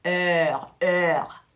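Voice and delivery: Heure said alone to isolate the eur sound; model sound. Shown as a demonstration. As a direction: drill the sound in heure for the class. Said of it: "faites attention à la prononciation". (heure, son eur isolé pour la classe)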